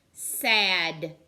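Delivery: Sad called out loud; loud stressed word. Shown as a demonstration. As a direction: say Sad big and loud for the kids. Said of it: "What makes the A sound".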